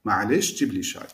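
casual spoken Arabic, relaxed; everyday dialect Arabic request; colloquial Arabic. Shown as a demonstration. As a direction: say it the street Arabic way. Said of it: "به لهجه های عامیانه اینطوری باید بگید".

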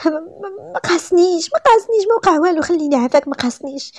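high, stammering, tearful denial; frightened pleading. A narrator's reading. Terrified bride denies to the man, frightened pleading. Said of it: "ودموعها نازلين".

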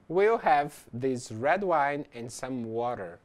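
slow, even read in one smooth phrase; slow model sentence. Shown as a demonstration. Teacher models a restaurant order for students, slowly and smoothly. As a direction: say "We'll have this red wine and some water" slowly and smoothly as one unbroken phrase. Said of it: "nós temos aqui o exemplo".

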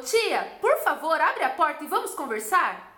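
lightly voiced child calling through the door; pleading little girl. Child voiced, asking to come in.

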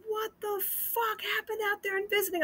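high-pitched, agitated imitation of a caller; retold angry demand. Husband phones wife from jail about visiting, agitated demand. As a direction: demand answers high, acting out the upset.

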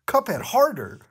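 high, loud hammed-up yell of the name; mock scream. Reader voicing Bendy screaming at Cuphead, loud high mock yell. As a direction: belt it out like a cartoon. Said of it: "Bendy screamed out".

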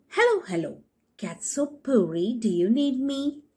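stick asking. Acted. Stick greeting cat.

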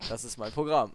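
loud, proud TV show host. Pretend. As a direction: announce it like a showman. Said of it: "ich hab grad so getan, als wär das eine Fernsehsendung".

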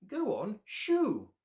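high, loud squawk; squawking bird. Acted. Mother bird shoos Bear from the nest, loud squawk. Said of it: "squawked the bird".

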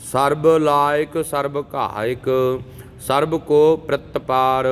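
slow, measured chanting of verses; scripture recitation. Acted. Teacher reciting Jaap Sahib for students, measured chant. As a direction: recite each verse steadily and devoutly.

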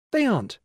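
"aren't" dropped steeply from a high start; vanishing. A narrator's reading. Teacher making figures vanish, falling "aren't". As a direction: knock "aren't" down from high pitch. Teacher toggling the pretend vision.

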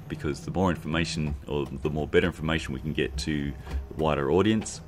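printer running in background; printer whir. Real, not acted. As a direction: talk over a whirring printer. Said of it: "sorry for background, uh, printer noise".

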